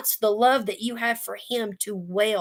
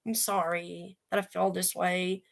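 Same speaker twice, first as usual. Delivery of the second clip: timid tiptoeing; 5 dB quieter than usual. Pretend. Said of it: "He's not tiptoeing around the Lord".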